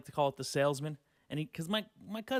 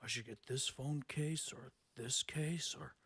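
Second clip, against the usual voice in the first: mock indecisive cousin; 4 semitones lower, 8 dB quieter than usual. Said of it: "he's like".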